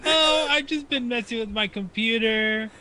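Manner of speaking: put-on high bubbly Valley Girl voice; a man putting on a Valley Girl voice. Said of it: "Apparently you couldn't do a Valley Girl voice, but that was pretty good".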